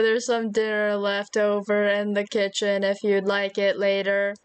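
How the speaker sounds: flat robot monotone. Acted. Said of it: "I'ma be a robot".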